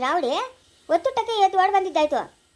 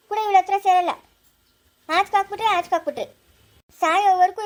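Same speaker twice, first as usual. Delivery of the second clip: angry loud complaint; 2 semitones higher, 5 dB louder than usual. Acted. Woman rants about daughter-in-law.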